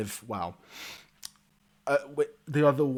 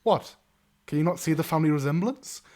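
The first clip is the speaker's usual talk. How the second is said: quick, higher bard voice; incredulous bard; 4 semitones higher, 4 dB louder, faster than usual. Acted. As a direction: toss it out fast, puzzled. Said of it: "looks between you two and goes".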